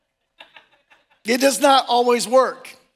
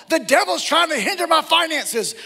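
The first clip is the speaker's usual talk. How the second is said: deflecting believer; 9 semitones higher than usual. Retold or imitated.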